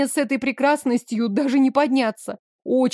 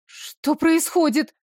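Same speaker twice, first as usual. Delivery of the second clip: panicked; 5 semitones higher, slower than usual. A narrator's reading. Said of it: "я запаниковала".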